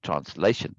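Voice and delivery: "translation" with the weight on LA; trans-LA-tion; second-syllable stress. Shown as a demonstration. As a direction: lean on LA in translation. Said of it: "I'm overemphasizing that second syllable".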